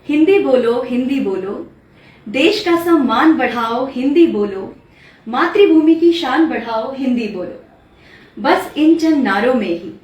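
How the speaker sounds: poem recitation. Acted. Poet reciting her poem on Hindi to her host, declamatory recitation. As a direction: recite it out boldly with swinging, rhythmic intonation.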